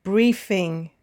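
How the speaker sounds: BRIEF-ing, weight on the first syllable; first-syllable stress. Shown as a demonstration. Teacher answers the exercise with "briefing", first syllable stressed. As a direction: stress the start of "briefing", ending unstressed. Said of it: "stressing, of course, the first or second syllable".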